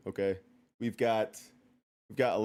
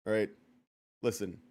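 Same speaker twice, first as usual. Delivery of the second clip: lower, softer, mock-grave tone; serious; 5 semitones lower, 3 dB quieter than usual. Real, not acted. Streamer getting mock-serious with chat, low and hushed. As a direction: drop into a mock-serious hush. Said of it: "This is serious".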